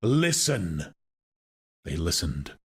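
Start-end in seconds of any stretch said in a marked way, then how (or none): 0.0-0.9 mild trumpeting with a falling swoop; trumpeted call. A narrator's reading. Supernatural voice startling the listeners, a mildly trumpeted call. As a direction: call it out, drawing the word downwards. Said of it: "trumpeted the voice".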